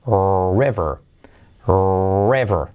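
river said slowly as ru-iver, U glide after the R. Shown as a demonstration. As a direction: show the U sound after the R in river. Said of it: "diciendo river y no, mírate". (river despacio con una U tras la R)

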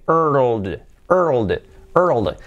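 put-on WORLD started from the er, as er-old-d; falling, drawn-out WORLD; building up the sounds. Shown as a demonstration. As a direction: piece WORLD together from R, L and D. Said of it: "y una D".

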